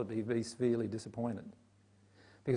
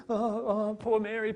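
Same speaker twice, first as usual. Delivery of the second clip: higher, fretful cooing over someone, lightly played; mock pity; 7 semitones higher than usual. Mocking the group's pity for teary Mary, higher cooing. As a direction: coo with exaggerated sympathy. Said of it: "you're feeling".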